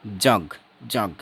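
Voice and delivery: 'जग' said slowly with a clear j sound; pronúncia modelo. Shown as a demonstration. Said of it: "वो आप क्या करोगे".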